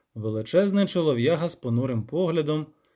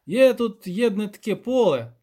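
higher, dialect-speaking villager; lightly pitched-up peasant storyteller; rustic village elder; 7 semitones higher, 5 dB louder than usual. Acted. Elder telling the witcher about a field, higher rustic voice.

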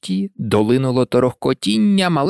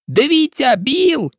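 excited shout; 11 semitones higher, slower than usual. A narrator's reading. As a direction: call out as a whole crowd. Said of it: "усі закричали хором". (здивований вигук натовпу)

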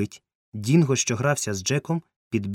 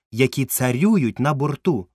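slow, louder, lofty correction; pride, pitched up and stately; proud; 5 semitones higher, 5 dB louder, slower than usual. A narrator's reading. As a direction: correct him proudly, drawing it out. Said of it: "гордо поправив кузен Бенедікт".

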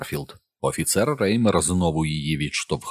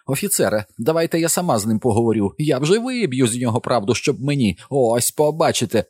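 angry mother; 7 semitones higher, 3 dB louder than usual. A narrator's reading. Angry mother voiced by narrator.

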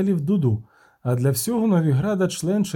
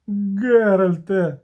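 slow, louder, higher moan of the name; a drawn-out, despairing wail at his friend; groaning; 7 semitones higher, 4 dB louder, much slower than usual. A narrator's reading. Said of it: "простогнав Любисток". (протяжний стогін: Геральте)

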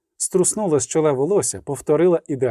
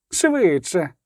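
a touch raised, eager push; urging on; 3 semitones higher than usual. Acted. Iskra urges the musicians faster, mildly raised. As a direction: hurry them along. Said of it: "підганяла музик Іскра".

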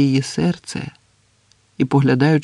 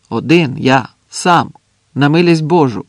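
emphatic, moderately raised reply; calling out; 4 dB louder than usual. Acted. Andres insisting to the sentry, calling out. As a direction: punch out each word, pleading. Shouting answer to sentry again.

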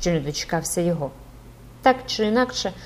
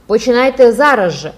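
loud, higher yell; student screeching; 4 semitones higher, 9 dB louder than usual. A narrator's reading. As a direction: shriek it like a cheeky student. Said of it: "верещав школяр".

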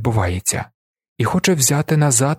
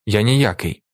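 understated hostile reply; вороже. A narrator's reading. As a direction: answer with restrained hostility. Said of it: "вороже відповідає Віллі". (стримано вороже)

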